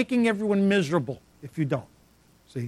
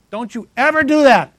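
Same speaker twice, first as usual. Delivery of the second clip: stern warning; 5 semitones higher, 8 dB louder than usual. Acted. Preacher warning congregation sternly.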